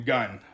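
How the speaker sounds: GUN as a separate last syllable; sounded-out syllable. Shown as a demonstration. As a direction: give gun on its own. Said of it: "So you sound it out".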